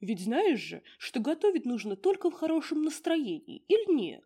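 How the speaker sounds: 1 gruff little mushroom spirit. Acted. Borovichok voice.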